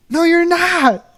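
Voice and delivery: very high, drawn-out retort; retold mocking contradiction. Worker answering the jet skier, retold mocking contradiction. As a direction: stretch out a high mock comeback.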